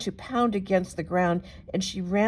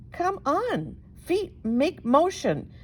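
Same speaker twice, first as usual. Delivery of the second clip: panicked plea; 8 semitones higher, slower than usual. Acted. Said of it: "she said as her legs jumped".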